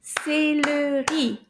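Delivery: Céleri slowly split into its syllables. Shown as a demonstration. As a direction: stretch each syllable of Céleri for clapping. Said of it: "let's try that again".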